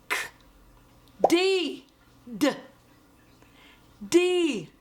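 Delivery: letter name then its sound; slow clear phonics drill. Shown as a demonstration. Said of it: "A, E, I, O, and U".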